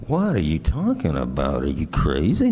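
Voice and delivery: disbelieving, swooping pitch on the questions; acted-out "are you serious" disbelief; incredulous retort. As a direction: throw it back in mild mock outrage. Acts shocked reply to sister's confession.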